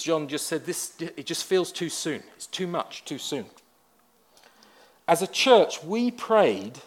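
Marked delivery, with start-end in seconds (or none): 0.6-3.5 tearful retold quote. Pastor quoting grieving friend John, softly tearful. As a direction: quietly echo a grieving husband's words. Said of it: "with tear-stained cheeks".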